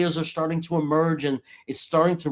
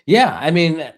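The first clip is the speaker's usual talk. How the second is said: ordinary talk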